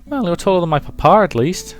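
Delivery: put-on high, quick little girl voice; high-pitched child chatter; cheeky child. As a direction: answer back as a cheeky kid. Child compares marquis to papa.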